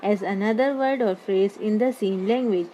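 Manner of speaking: very slow, word by word reading of the definition; dictating a definition to the class, very slowly; slow dictation. Shown as a demonstration. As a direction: read it out slowly so students can copy. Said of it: "जैसे यहाँ definition लिखी मैंने".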